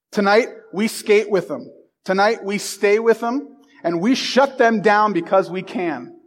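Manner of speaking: steady, building locker-room speech; rousing coach pep talk. Acted. Coach to his players before the big game, rousing pep talk. Teacher reads Herb Brooks speech.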